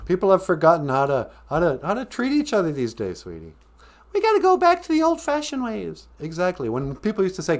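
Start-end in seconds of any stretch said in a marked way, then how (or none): 4.1-6.1 put-on old man. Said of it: "sounding like such an old man".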